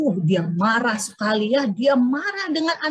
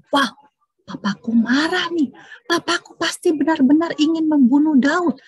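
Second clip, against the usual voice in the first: alarmed son; 4 semitones higher, 5 dB louder than usual. Acted. Jonathan alarmed.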